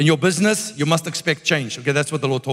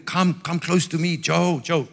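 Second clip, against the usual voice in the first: imitated calling. Preacher voicing God drawing Joe near, mildly calling. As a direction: beckon someone closer with an unforced call. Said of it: "like calling".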